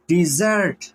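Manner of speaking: डेजर्ट with the weight on its second syllable; teacher's demo of डेजर्ट, stressed at the end. Shown as a demonstration. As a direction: lean on the last syllable of डेजर्ट. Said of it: "second one syllable को मैंने stress किया".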